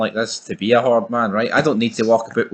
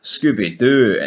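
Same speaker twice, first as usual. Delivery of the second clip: Scottish dog voice. Retold or imitated. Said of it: "He's like".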